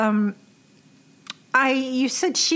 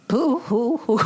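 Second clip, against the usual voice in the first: mock boo hoo; 3 semitones higher than usual. Mocking her own crying now.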